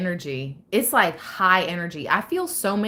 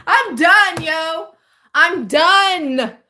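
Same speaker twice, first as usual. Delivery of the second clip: laughing; 9 semitones higher, 7 dB louder, much slower than usual. Real, not acted. Laughing after the outburst.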